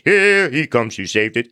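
booming hero anthem line, slow; big booming voice. Retold or imitated. Comic sings Mighty Mouse to the crowd, booming. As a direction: belt it out like a cartoon theme. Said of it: "he would do it in a big booming voice".

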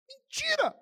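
very high-pitched cry of exposure; sudden high outburst; exclaimed denunciation. Real, not acted. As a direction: call out the lie in a high, ringing voice. Preacher exposes Absalão's lie.

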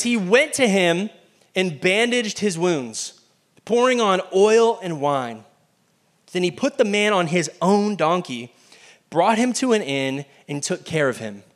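slow, measured Bible reading; scripture reading. Acted. Preacher reading the Good Samaritan verse to congregation, slow and measured. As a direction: read the verse slowly and deliberately. Reads scripture passage aloud.

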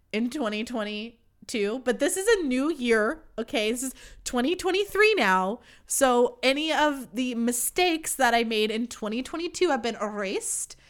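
rolled r in "twenty twenty-two". Real, not acted. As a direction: trill the r in "twenty twenty-two" and "erased". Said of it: "I keep rolling my R's right now".

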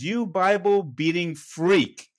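slow, drawn-out mock outrage; retold angry insult. Diner stands up to insult the preacher, mildly angry. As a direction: imitate an offended man, each word stretched.

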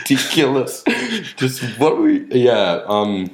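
a little tipsy from gin. Real, not acted. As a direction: talk slightly tipsy. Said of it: "this gin's hitting me".

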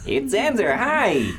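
high, bright cheerful greeting voice; Zanzer voice. Acted. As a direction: pitch it well up, friendly.

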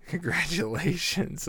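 high, drawn-out sarcastic congratulations; mocking congratulations. Mocks self-proclaimed king of town.

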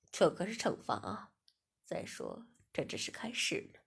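low, mocking master voice; stern master. A narrator's reading. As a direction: menace her lightly.

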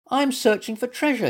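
high-pitched little voice; squeaky. A narrator's reading. Little Mutt telling a squirrel his errand, squeaking. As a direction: squeak it out like a small creature. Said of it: "he squeaked".

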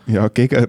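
"gegen" said with clear weight on the first syllable; stress on gegen. Shown as a demonstration. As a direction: lean into "gegen" and lift it. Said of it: "mit Betonung auf gegen".

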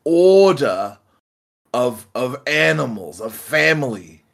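put-on Australian accent, cheeky and insistent; fast-talking Aussie. Pete, fast-talking the armed panda, in a cheeky Australian accent. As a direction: talk circles round him with chutzpah. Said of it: "chutzpah plus fast talk".

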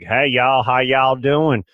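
mock Texas accent, drawn out and slow; playful Texas drawl; Texan drawl imitation. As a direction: lay on a light Southern Texas twang. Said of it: "with your accent".

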